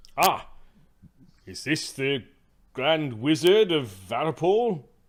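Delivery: big, booming, loud, slow voice. Voicing Duncan greeting the Grand Wizard: boomy voice. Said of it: "he's got a boomy voice".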